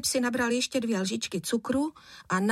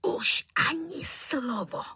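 wheezing angry father; 7 semitones higher, slower than usual. A narrator's reading. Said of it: "zasýpal tatínek".

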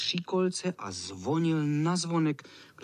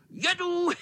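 cocky cat. Acted. Cat crowing back.

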